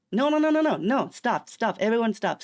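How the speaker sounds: loud, high burst of rapid-fire objection; mock outraged protest. Streamer halting everyone over the letter W, mock outraged shouting. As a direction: cut everyone off in playful outrage.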